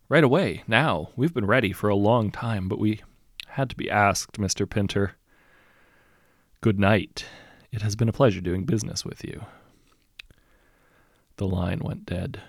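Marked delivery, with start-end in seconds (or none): 0.1-9.5 eager, louder and keen. Acted. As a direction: sound keen to start. Eager killer agrees to start.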